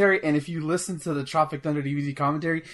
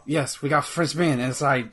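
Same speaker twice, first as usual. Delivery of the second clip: bad French accent. Ben pretending to be French Ben hijacking the show, hammy French accent. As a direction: play a cartoonish Frenchman taking over the show. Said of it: "a bad French accent".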